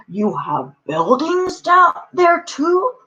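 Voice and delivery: slow, high-pitched astonished question; gasping surprise. A narrator's reading. Horton learning of buildings on the speck, amazed. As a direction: stretch it out, rising in wonder. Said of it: "Horton gasped".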